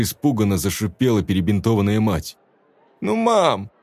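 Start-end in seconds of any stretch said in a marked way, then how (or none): 3.0-3.7 put-on high whiny child voice; boy whining to his mother. A narrator's reading. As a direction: whine at mum. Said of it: "законючил тот".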